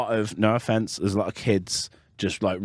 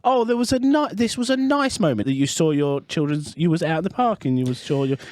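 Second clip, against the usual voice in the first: mock sweet retelling; 6 semitones higher than usual. Imitating friend's sweet story.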